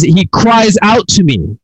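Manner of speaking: high, slow declaration as if yelling; mild yell. Acted. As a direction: call it out slowly without full volume. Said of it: "He yells again".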